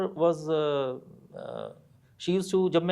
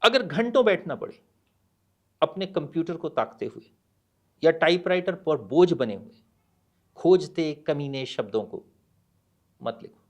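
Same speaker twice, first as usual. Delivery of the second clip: measured poem reading with pauses; poem recitation; faster than usual. Acted. (कविता पाठ, ठहर-ठहर कर)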